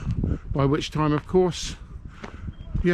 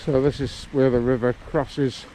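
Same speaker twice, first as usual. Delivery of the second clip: muffled by scarf. Real, not acted. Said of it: "Sorry if I sound slightly muffled, but I've got a scarf over my mouth".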